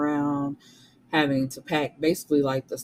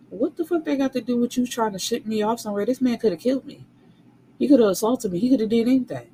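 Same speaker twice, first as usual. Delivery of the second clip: higher, louder, heated outrage; outraged rant; 7 semitones higher, 4 dB louder, faster than usual. Real, not acted. Reviewer ranting at the sister-in-law, outraged and loud. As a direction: build the fury line by line. Reader's own outraged reaction.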